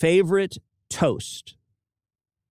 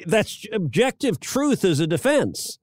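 incredulous; 9 semitones higher than usual. Retold or imitated. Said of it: "And I'm like".

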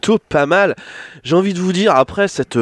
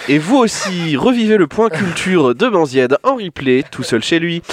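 mock TV announcer; 4 semitones higher than usual.

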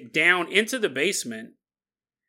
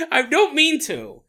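laughing apology; 10 semitones higher, 4 dB louder than usual. Real, not acted. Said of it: "dog lovers who keep emailing me".

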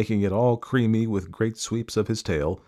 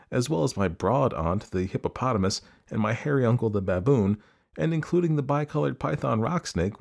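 lightly voiced child, pitched up at times; most polite; 3 semitones higher than usual. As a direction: list grievances with innocent courtesy. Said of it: "said the elephant's child most politely".

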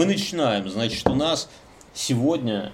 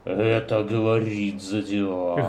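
ominous killer voice; 2 semitones lower, slower than usual. Shown as a demonstration. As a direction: announce yourself darkly. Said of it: "с белорусским акцентом".

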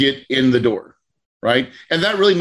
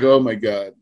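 sinking realization; 6 semitones lower than usual. Retold or imitated. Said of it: "And then I'm like".

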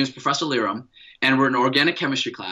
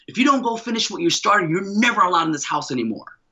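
dad's angry threat; 4 semitones higher than usual. Retold or imitated. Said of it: "He goes crazy".

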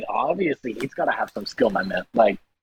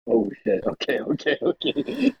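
underwater; slower than usual. Real, not acted. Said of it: "he sounds like he's underwater".

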